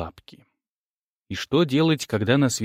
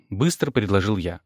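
usual speaking voice

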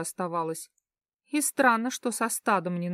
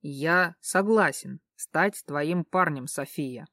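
solemn; 4 semitones lower, slower than usual. Acted. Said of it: "произнёс торжественным голосом".

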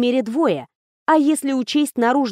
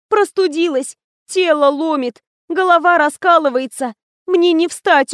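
higher, louder, hammed-up sick begging; hammed-up pleading; 6 semitones higher, 4 dB louder than usual. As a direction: overplay the misery to win time. Faked illness, begging the blackmailer. (наигранная мольба больной)

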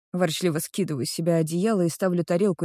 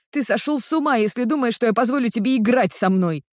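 much higher, louder indignant cry; tearful outburst; 5 semitones higher, 4 dB louder than usual. Acted. Crying girl refusing to be played by her boyfriend, high indignant yell. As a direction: fling it at him through tears.

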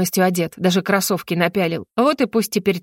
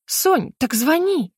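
higher, slow barked order; 7 semitones higher, much slower than usual. A narrator's reading. Heroine barks at her friend to call, barked order. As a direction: bark it at her. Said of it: "рявкнула я на подругу".

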